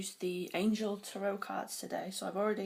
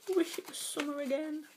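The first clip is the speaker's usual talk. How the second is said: wistful sigh; 9 semitones higher than usual. Retold or imitated. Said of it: "I'm gonna be going".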